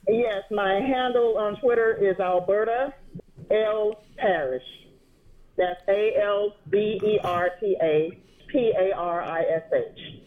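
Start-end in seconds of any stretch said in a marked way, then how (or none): 2.2-10.2 slow, careful spelling-out; measured pace for someone writing it down; slow dictation. Real, not acted. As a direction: spell it out slowly, letter by letter. Dictating her Twitter handle to listeners.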